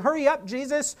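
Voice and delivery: telling Jesus to hurry, not asking; a desperate father giving Jesus directions; demanding. Retold or imitated. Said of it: "in essence, he's saying".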